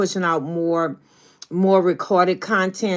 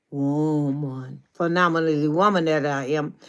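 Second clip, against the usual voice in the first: low proud finish; 3 semitones lower than usual. Retold or imitated. Proclamation drops to low finish.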